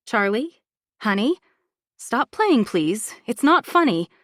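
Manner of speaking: rising worry, pleading with her to wake; plead, fear creeping in; anxious pleading. Acted. Mother pleading with her limp daughter, growing fear. Mother shaking unresponsive child.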